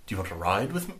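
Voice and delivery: put-on soft, shaky go at a British accent; attempted British accent. Game master voices the dream guide, attempted British accent. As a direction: try a British accent, quietly. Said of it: "I can't do British".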